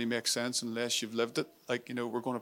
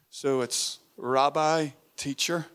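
reverent; 3 dB louder, slower than usual. Shown as a demonstration. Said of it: "like reverence".

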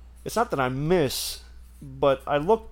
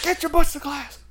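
high, forceful scolding shout; teacher's yelled order; 14 semitones higher, 6 dB louder than usual. Retold or imitated. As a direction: imitate a teacher hollering, high and loud. Teacher ordering pupils to class.

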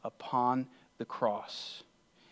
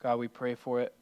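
prayer. Real, not acted. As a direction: pray earnestly, leaving long pauses between phrases. Leads a closing prayer.

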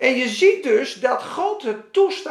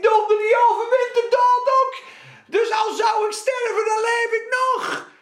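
excited realization; 11 semitones higher than usual. Acted. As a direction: exclaim it like a sudden revelation. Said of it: "Dan denk ik". (hoge, luide uitroep van plotseling inzicht)

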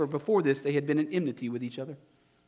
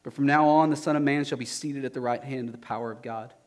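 Jesus, calm. Acted. Jesus answers the council calmly.

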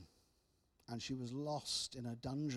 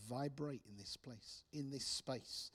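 slow, softer murmured prayer; softly praying; 4 dB quieter, slower than usual. Retold or imitated. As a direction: pray it gently over the room. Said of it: "And I began to pray".

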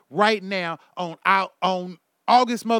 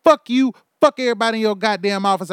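higher and louder angry shouting; furious rant; 4 semitones higher, 5 dB louder than usual. Real, not acted. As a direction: yell at them, fed up and furious.

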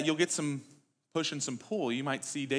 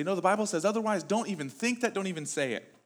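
dismissive placating quote; 4 semitones higher than usual. Retold or imitated. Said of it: "we just kinda placate those and say".

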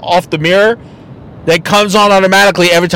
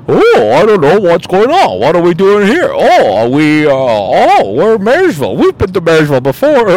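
a hint of a confused girl waking up; clueless Riri voice. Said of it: "picture her like some Riri going".

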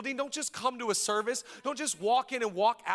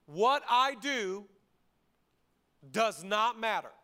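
slow, drawn-out recital of the lie; slow quoted lie; slower than usual. Shown as a demonstration. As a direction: spell the lie out slowly. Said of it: "the third lie of loneliness".

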